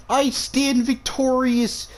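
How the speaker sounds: slow, high grand declaration; heroic proclamation. Pretend. Player after killing the snake, slow heroic proclamation. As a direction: proclaim it like a conquering hero.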